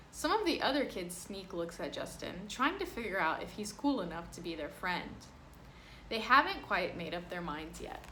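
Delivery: lively picture-book reading voice; reading to children. Acted. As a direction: read it aloud to a class. Reads picture book to class.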